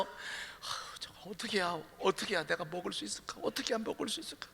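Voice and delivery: very soft, half-whispered wondering; hushed scheming child; inner whisper. Acted. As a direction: mutter it to yourself secretly. Child's secret inner thought.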